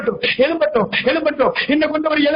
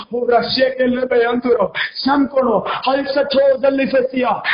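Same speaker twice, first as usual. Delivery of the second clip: slow measured tongues; praying in tongues. Real, not acted. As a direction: let the syllables roll slowly. Prays in tongues.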